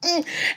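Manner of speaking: soft, high laugh-cry. Shown as a demonstration. Mother showing her sons' hated laugh cry, laugh cry. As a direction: laugh as if holding back tears. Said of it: "I do a laugh cry".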